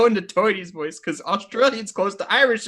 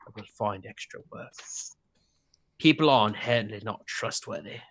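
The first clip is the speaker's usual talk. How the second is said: put-on Australian accent; 4 semitones lower than usual. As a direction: read it as an Australian, aiming for Cockney. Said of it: "you're, you're Australian".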